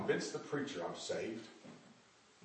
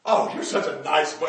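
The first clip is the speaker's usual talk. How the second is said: put-on cracked-up old lady voice; 5 dB louder than usual. The old lady cooing at John in a cracked voice. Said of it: "Oh, cracked up voice".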